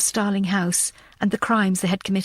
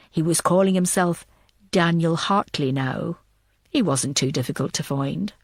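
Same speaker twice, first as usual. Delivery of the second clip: a man recalling, voiced a touch lower; low, steady telling of an old memory; a hint of a cool, unhurried man; Samuel's voice; 5 semitones lower than usual.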